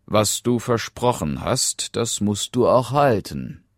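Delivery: lightly voiced, firm king; stern king. King orders his daughter. (leicht gespielter strenger König)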